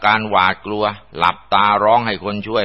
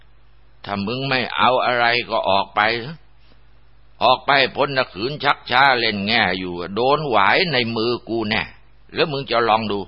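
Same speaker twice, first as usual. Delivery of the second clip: acted warning in a higher pitch; stern threat; 4 semitones higher than usual. Monk with rattan cane ordering a spirit out, stern threat. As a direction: order it out, mildly menacing. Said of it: "หันมาใช้ไม้แข็งขยับหวายไล่ผีในมือ".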